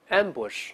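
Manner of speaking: "ambush" said slowly, stress on am-; clear model reading. Shown as a demonstration. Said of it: "我们先读一下埋伏这个词". (示范朗读ambush，重音在前)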